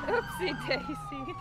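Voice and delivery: high mock oopsie. Mocking friend's oopsie daisy.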